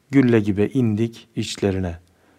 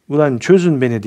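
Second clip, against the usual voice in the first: retold shout; 4 semitones higher, 4 dB louder than usual. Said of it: "diye bağırdım".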